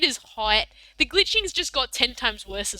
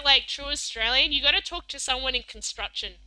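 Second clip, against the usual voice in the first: ordinary delivery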